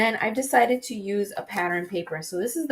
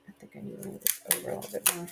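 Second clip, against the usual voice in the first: muttering; 12 dB quieter, much faster than usual. Real, not acted. Muttered aside while adjusting.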